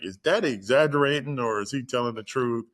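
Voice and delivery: imitating an incredulous son's question; retold questioning. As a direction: ask in mild disbelief, pitch up on the first part. Son's retold question to his sister.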